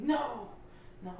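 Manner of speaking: high-pitched mock wail; mock crying. Making fun of a crying movie character, mock tearful. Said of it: "he starts crying".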